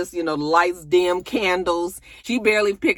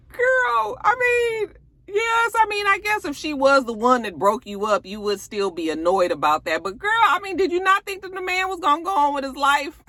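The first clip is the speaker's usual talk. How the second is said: exasperated outburst; 13 semitones higher than usual. Real, not acted. Vlogger yelling at the show, high and wailing. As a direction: cry out high in disbelief at her.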